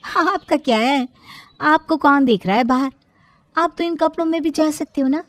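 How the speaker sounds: lightly voiced, brushing-him-off daughter-in-law; dismissive sister-in-law. Sister-in-law tells him to wash them himself, dismissive.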